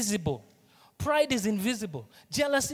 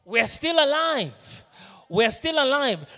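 emphatic preaching; 5 semitones higher, 5 dB louder, slower than usual. Acted. Preacher repeats line, emphatic.

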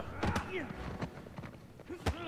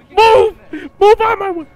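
raised, forceful order; urgent yell; 3 semitones higher, faster than usual. Real, not acted. Player blocked while fleeing, urgent yell. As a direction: yell to clear the path.

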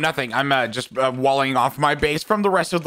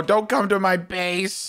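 slow, dry sarcastic warning; slower than usual. Acted. Player warning a rival away from her base, slow and sarcastic. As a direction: drag the words out as mock innocence. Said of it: "Why do you say that so sarcastically?".

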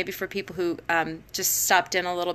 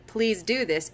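firm instruction falling at the end; directive; slower than usual. Shown as a demonstration. Teacher giving a student an instruction, firmly. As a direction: state it, don't ask. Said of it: "it's a directive".

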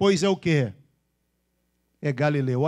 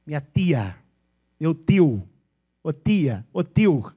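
Bauru regional accent; 4 dB louder, much slower than usual. Shown as a demonstration. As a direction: imitate Bauru-area speech. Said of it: "sabe como é que eles falam?".

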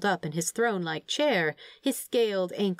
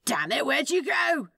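higher, panicked call after the machine; mild yell; 8 semitones higher than usual. A narrator's reading. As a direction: call out while running. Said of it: "Crowley yelled".

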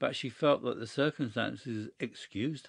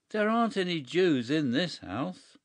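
gasped out; 6 semitones higher, 4 dB louder than usual. A narrator's reading. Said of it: "he managed to gasp out".

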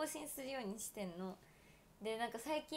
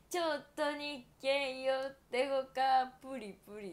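imitating an ad jingle; 5 dB louder than usual. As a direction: croon the ad's closing tagline. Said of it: "っていうのね".

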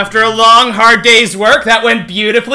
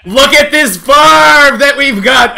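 proud shout; 5 semitones higher, 4 dB louder, slower than usual. Real, not acted. Proud of new farm.

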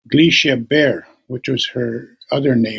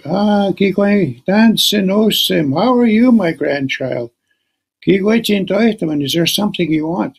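a lightly voiced old man greeting kindly; old grandpa; 5 semitones higher than usual. Old grandpa greeting his visiting grandchild.

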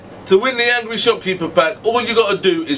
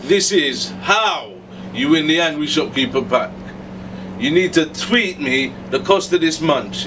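slow deliberate announcement; 4 semitones lower than usual. Shown as a demonstration. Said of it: "the moment you've all been waiting for".

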